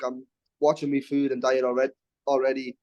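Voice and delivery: talking with hiccups; hiccuping between words. Real, not acted. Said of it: "Sorry, I have the hiccups".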